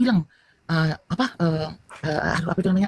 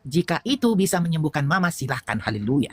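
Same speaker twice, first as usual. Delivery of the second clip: calm consent; slower than usual. Retold or imitated. Husband answering sick wife's wish to pray, calm and measured. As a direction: quote a husband's calm blessing, lightly imitated.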